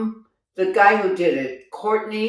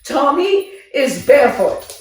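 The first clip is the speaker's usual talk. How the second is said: emphatic, higher director's orders; re-enacted cast announcement; 5 semitones higher than usual. Director warning the cast about pins on the floor, re-enacted emphatic announcement. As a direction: act out addressing the whole room.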